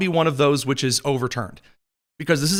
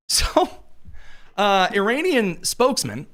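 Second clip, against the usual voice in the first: higher, dry-throated news delivery; 5 semitones higher than usual. Real, not acted. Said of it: "my voice is getting a little higher".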